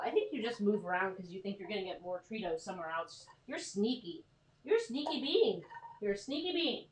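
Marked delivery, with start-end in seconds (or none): 3.5-6.9 higher teasing pet voice; pet talk. Real, not acted. Owner teasing her sneaky dog in higher pet talk. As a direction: coo it playfully at the dog.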